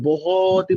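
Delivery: बहुत with a long stretched middle; drawn-out emphasis. Shown as a demonstration. Teacher describing a very feeble speed, drawn-out emphasis. Drags the word to exaggerate slowness.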